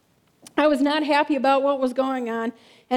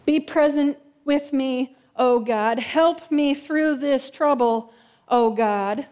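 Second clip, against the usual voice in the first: slow, pleading prayer; slow psalm prayer; slower than usual. Acted. Preacher reading Psalm eighty-six as a slow prayer. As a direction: draw out each plea to God. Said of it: "I picked Psalm eighty-six".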